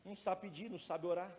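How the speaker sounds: low-pitched, matter-of-fact refusal as God; God's low, unimpressed reply; God answering. Acted. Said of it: "Aí Deus fala assim".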